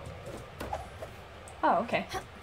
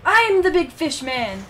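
big boast; 4 semitones higher, 8 dB louder, slower than usual. Pretend. Boasting while fishing in game.

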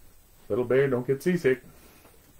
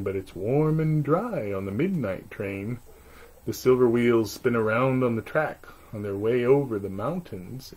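bedtime rhyme. A narrator's reading. Bedtime rhyme read aloud.

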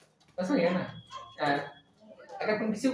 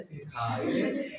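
slow coaxing voice; 6 semitones lower, 3 dB quieter, slower than usual. Retold or imitated. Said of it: "वो प्यार से बोलिए ना".

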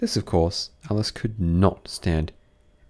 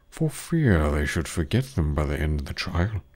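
Griffin whispering; 4 semitones lower than usual. A narrator's reading. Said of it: "the Griffin whispered in reply".

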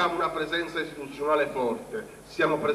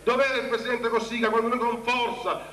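indignant; 5 semitones higher than usual. Real, not acted. Rhetorical accusation against Cossiga.

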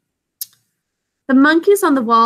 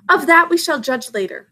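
dry; 7 semitones higher than usual. Acted. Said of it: "in a dry voice".

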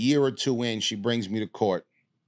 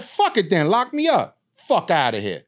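louder, higher defiant snap; retold reckless defiance in court, raised voice; defiant outburst; 8 semitones higher, 5 dB louder than usual. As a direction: throw it back at the judge, daring her. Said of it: "I said".

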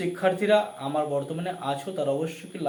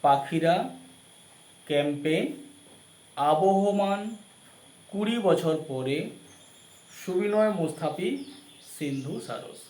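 dictating; 2 semitones higher, slower than usual. Shown as a demonstration. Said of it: "আমরা আরেকবার বলছি".

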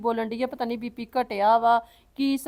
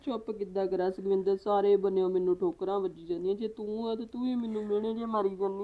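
low, tearful lament; 3 semitones lower than usual. Acted. Woman hurt by sister-in-law's taunts, tearful. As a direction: plead your hurt, pitched down. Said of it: "ਚੱਲ ਹੁਣ ਚੁੱਪ ਕਰ".

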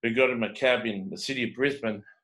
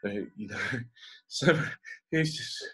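real choked-up catch while talking; halting, on the verge of crying; near tears. Real, not acted. Storyteller reliving a man's grief, near tears. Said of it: "I'm almost going to tears".

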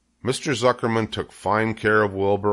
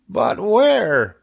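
high, loud anxious question; Wilbur the pig, questioning; 12 semitones higher, 6 dB louder than usual. A narrator's reading. Wilbur asks departing spiderling, high and loud. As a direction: cry it out, pitched way up. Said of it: "asked Wilbur".

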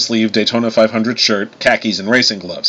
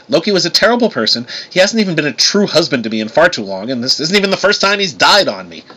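higher-pitched, insistent complaint; too emphatic; 6 semitones higher than usual. A narrator's reading. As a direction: protest a little too much. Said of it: "said a little too emphatically".

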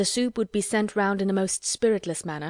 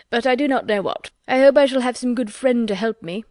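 put-on higher, eager young gentleman; eager gushing squire; 4 semitones higher, 6 dB louder than usual. A narrator's reading. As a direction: gush with delight about the grounds. Rushworth again.

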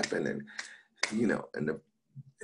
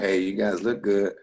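loud hello to a crowd; projected comic's opener; stage greeting; 3 semitones higher, 6 dB louder than usual. Retold or imitated. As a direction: call out to the audience. Retold greeting to the audience.

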